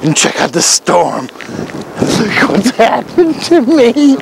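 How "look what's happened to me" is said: slow, high mock lament; hammed-up despair. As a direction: wail it like a tragic heroine.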